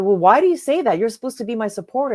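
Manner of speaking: mildly offended pushback; retold anger. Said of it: "she was very angry at me".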